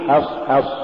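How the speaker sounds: حصحص with thin vowels after each h; has-has, front a in حصحص; light ha. Shown as a demonstration. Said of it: "قل".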